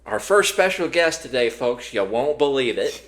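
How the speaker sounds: loud, excited announcer; show host announcement. Acted. Host introducing a surprise star guest, excited announcer voice. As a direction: proclaim it high and big to the audience.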